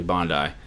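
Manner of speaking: Bondi said carefully as BON-dye; careful Aussie pronunciation. Shown as a demonstration. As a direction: Bondi with a long "eye" at the end. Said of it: "I'll try to say it correctly".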